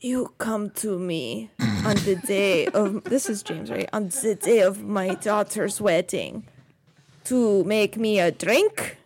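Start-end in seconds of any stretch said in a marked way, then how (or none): 0.0-3.0 lightly voiced Godfather-style mob boss; a hint of a slow, solemn mafia don; James mobster voice. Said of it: "do your James impression". 3.9-9.0 lightly voiced Godfather-style mob boss; a hint of a slow, solemn mafia don; James mobster voice. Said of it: "do your James impression".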